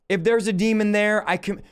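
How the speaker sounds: mildly tentative mock prayer; timid prayer. Shown as a demonstration. Preacher mimicking how not to confront a demon, timidly. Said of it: "I'm not praying timidly".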